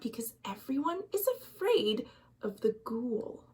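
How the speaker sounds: hushed breathy whisper; whispered aside. A narrator's reading. Narrator whispering to listeners about the fear. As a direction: lean in and whisper.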